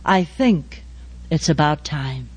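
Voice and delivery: pitiful voice. Retold or imitated. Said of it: "this pitiful voice saying".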